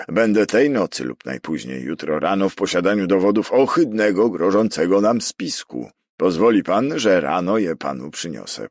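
urgent appeal read out loud; reading aloud. A narrator's reading. Prefect reading Foville's plea for help, aloud and urgent. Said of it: "zaczął czytać na głos".

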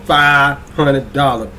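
drawn-out, lightly imitated actress delivery; Taraji P Henson voice. Host repeating the giveaway prize, in a light actress impression. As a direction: stretch each word in a light celebrity impression. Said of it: "in my Taraji P Henson voice".

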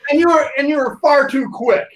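laughing. Real, not acted. Laughing back at the teasing.

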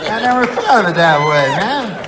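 high, gushing over-the-top enthusiasm; delighted like a kid about bananas; hammed-up childlike glee; giddy excitement. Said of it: "I go".

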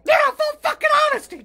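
shouted, fast and fed up; frustrated outburst; exasperated shout. Real, not acted. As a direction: yell it back, losing patience. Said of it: "Full, full honesty".

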